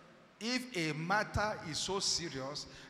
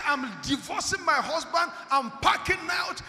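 higher, louder voice of a wife walking out; raised, high-pitched declaration; lightly voiced upset wife; 8 semitones higher, 5 dB louder than usual. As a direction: lightly act a wife announcing she's leaving. Voices a wife announcing she leaves.

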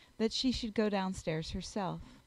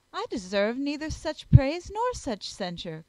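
higher, louder objection; crying out in protest; 5 semitones higher, 7 dB louder than usual. A narrator's reading. Elizabeth rejecting praise and censure from the card party, raised protest. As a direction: speak up and firmly disown the compliment. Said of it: "cried Elizabeth".

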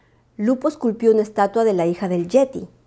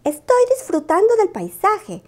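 high Lupo voice; 10 semitones higher than usual. Acted. Lupo answers the owl.

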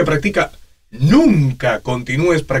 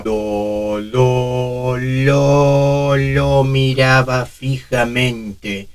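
put-on slow, halting old man voice; much slower than usual. Shown as a demonstration. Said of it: "características que generalmente están asociadas a la presbifonía".

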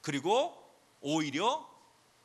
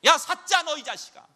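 furious shouted rebuke, much higher and louder; God rebuking Satan; 7 semitones higher, 8 dB louder than usual. Acted. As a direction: roar at Satan to back off. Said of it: "하나님께서 말씀하십니다".

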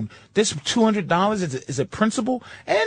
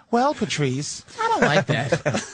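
mock phone agent; 4 semitones lower, slower than usual. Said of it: "retort to phone agent".

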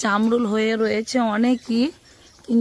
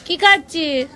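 to someone hard of hearing; 4 semitones higher than usual. Real, not acted. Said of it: "ঠাকুমা তো কানে শুনতেই পাবেনি".

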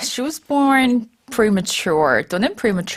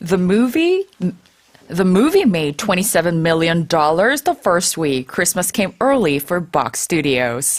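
measured news read; news anchor voice; 3 semitones lower, much slower than usual. Shown as a demonstration. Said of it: "한번 뉴스처럼 읽어주실래요?".

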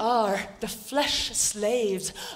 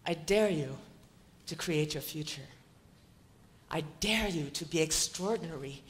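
breathy whispered dare, much softer; 7 semitones lower, 10 dB quieter than usual. Real, not acted. Speaker whispering a dare to the audience, intimate.

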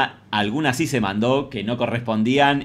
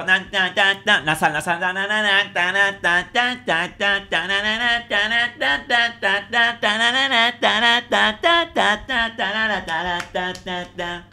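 muy aguda y nasal, tarareando; voz de pito; 7 semitones higher, slower than usual. Pretend. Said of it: "Voz de pito". (voz de pito aguda tarareando)

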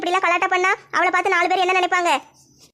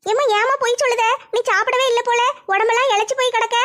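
put-on raised, girlish young daughter; 4 semitones higher than usual. Daughter cheerfully greets her mother at the bus stand, girlish and higher. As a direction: play the eager young girl meeting her mom.

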